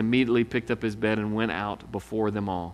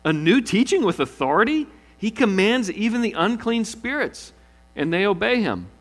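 amazed crowd; 8 semitones higher, 4 dB louder than usual. Acted. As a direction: voice the stunned crowd.

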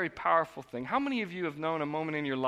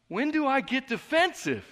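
high, amused incredulous question; laughing self-question; 11 semitones higher than usual. Retold or imitated. Pastor mocking his own inner thought, laughing. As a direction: scoff at the idea, laughing.

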